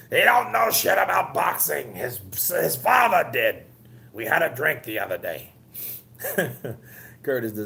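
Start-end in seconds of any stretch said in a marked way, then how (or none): 0.1-5.5 mock Wilder. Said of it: "Wilder said that shit".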